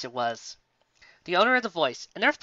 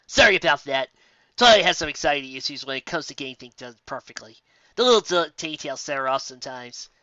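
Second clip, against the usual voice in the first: put-on louder, matter-of-fact young helper; smooth things over for his friend; apologetic little dragon; 6 dB louder than usual. Spike explaining Twilight's anxiety to the baker, brisk and louder.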